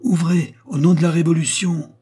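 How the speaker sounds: high, loud shout through a door; shouted order. A narrator's reading. A voice outside shouts at the door, loud and high. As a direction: bellow the command from outside. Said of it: "une voix cria de l'extérieur".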